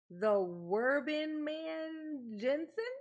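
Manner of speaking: tentative name read; careful name attempt. Shown as a demonstration. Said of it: "did I nail it".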